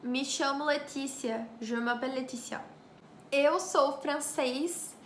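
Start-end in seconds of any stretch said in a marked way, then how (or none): 3.3-4.9 Eu sou francês said slowly, each syllable clear; slow careful demo. Shown as a demonstration. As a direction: spell out Eu sou francês for learners. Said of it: "Ça veut dire".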